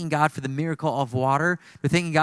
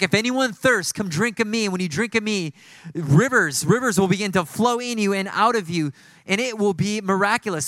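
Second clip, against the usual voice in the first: higher-pitched preacher's proclamation, mildly raised; imitated crying out; 5 semitones higher than usual. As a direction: proclaim it like Jesus crying out to a crowd, without yelling. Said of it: "He's, he's crying out".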